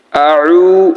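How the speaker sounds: "আউ" with the u held for one beat; briefly lengthened "আউ"; one-alif elongation. Shown as a demonstration. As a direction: stretch the end of "আউ" moderately. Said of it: "এক আলিফ টানতেছি".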